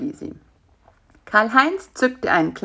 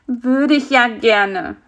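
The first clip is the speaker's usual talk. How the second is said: slow, higher, wistful fly voice; small insect, drawn-out and regretful; little fly; 5 semitones higher, 4 dB louder, slower than usual. A narrator's reading. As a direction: answer ruefully in a small voice.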